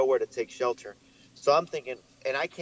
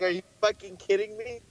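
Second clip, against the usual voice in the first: high-pitched panicked retelling; panicked disbelief; 9 semitones higher than usual. Retold or imitated. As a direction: squeal it in replayed panic. Retold panic at friend's answer.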